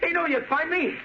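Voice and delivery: high, wild, unhinged threats; frantic and crazed. Acted. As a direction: lose control, voice cracking up high. Crazed son threatens with grenade.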